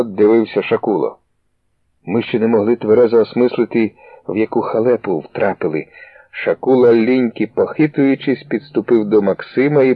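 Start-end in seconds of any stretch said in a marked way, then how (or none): none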